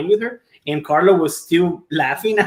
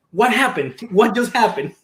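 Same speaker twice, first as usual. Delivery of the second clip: bewildered doctor; 3 semitones higher than usual. Retold or imitated. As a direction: rattle off the doctor's confusion. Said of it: "She's like".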